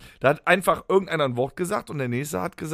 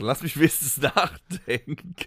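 stifled giggles. Real, not acted. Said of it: "Hör auf zu lachen".

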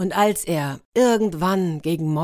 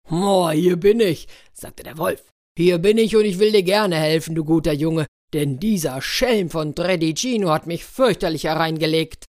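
loud, booming wolf volunteering; eager wolf; 4 dB louder than usual. Acted. Wolf eagerly answers the boy, loud and hearty. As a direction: boom out your offer to help.

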